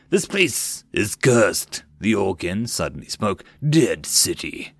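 slow, low foreboding; slow gruff warning; ominous Orkin. Acted. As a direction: intone it like a curse.

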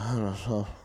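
wordless mumbling like a sleep talker; imitated sleep mumble. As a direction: mimic a congested sleeper mumbling. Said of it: "I hear him start to mumble".

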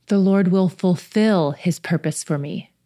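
"fulfill" held and weighted, read slowly; stress on fulfill. Shown as a demonstration. Rereading the verse to listeners, stressing fulfill. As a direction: let "fulfill" carry the verse. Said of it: "put the emphasis on a different section each time".

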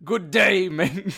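badly faked Scottish-Irish greeting; mock Irish or Scottish. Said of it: "I don't know any Irishmen or Scotland".

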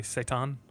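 Satan said as "say-TAHN", questioning; attempted original pronunciation. Shown as a demonstration. Asking the co-host how to say it correctly, Satan as "say-TAHN". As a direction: say Satan with a long "ah", stressed last. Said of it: "how do you say it correctly".

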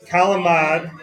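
CALAMAD with the final vowel dropped, ending on a firm d; Italian-American pronunciation. Shown as a demonstration. Coach correcting how everybody says calamari, clipped-ending dialect pronunciation. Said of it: "Everybody says this wrong".

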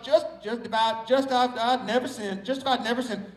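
"just if I'd" slurred together to sound like "justified"; repeated Southern elision of "just if I'd"; Southern pronunciation. Shown as a demonstration. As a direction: run "just if I'd never sinned" together, Southern style. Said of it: "That's how we say it".

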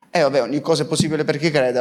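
quick, dismissive run-through; offhand repetition. Acted. Preacher echoing the scripture line as if routine, quick and offhand. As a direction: rattle the saying off casually. Same saying repeated offhandedly.

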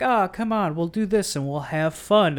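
high, loud fake cheer; mock a cheesy drinking buddy; hammed-up hearty pal. Mocking movie drinking banter.

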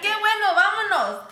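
high, loud tearful reply. Retold or imitated. Answering husband through tears, high and loud. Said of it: "Y I said".

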